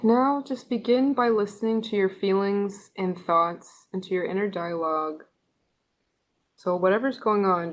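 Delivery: unhurried instructions with long pauses between phrases; measured meditation-leader delivery; guided meditation. Real, not acted. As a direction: guide listeners gently into stillness, leaving space after each line.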